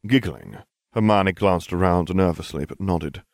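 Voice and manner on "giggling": ordinary delivery, nothing marked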